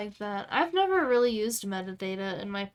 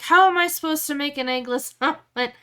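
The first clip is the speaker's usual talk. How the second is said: chef, laughing; 3 semitones higher, 6 dB louder than usual. Retold or imitated. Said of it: "And the chef is like".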